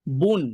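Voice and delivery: বুন with the final ন clearly sounded; teacher models বুন, ending on a clear ন; dammatain demo. Shown as a demonstration. Teacher shows students dammatain sound, clear demo. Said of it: "দম্মাতাইন বলি".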